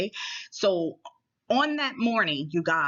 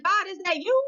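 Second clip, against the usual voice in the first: awed question; 11 semitones higher than usual. Retold or imitated. Wonders if God speaks.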